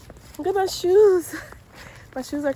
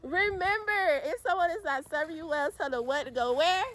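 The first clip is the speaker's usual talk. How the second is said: giggling while saying it; words broken by laughter; laughing through words; 3 semitones higher, 5 dB quieter than usual. Real, not acted. Laughing through sign-off message.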